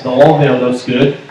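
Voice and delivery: put-on a light Australian accent, slow and drawn out. Reads a fan's greeting in a mild Australian accent. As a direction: say "oil" the Aussie way, slow. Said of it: "you did an Australian accent".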